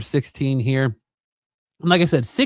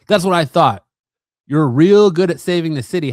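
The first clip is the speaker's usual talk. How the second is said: mock angry jab; 4 semitones higher, 6 dB louder than usual. Penguin lashes out at Bruce.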